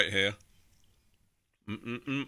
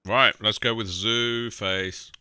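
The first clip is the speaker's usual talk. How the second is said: slow hushed whisper; slower than usual. Real, not acted. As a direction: breathe it out slowly. Whispered aside before break.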